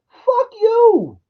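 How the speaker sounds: angry outburst. Real, not acted. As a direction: snap back at the character.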